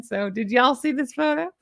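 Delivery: easy Southern twang; Southern accent. Real, not acted. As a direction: own your Southern accent. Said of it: "but I am Southern".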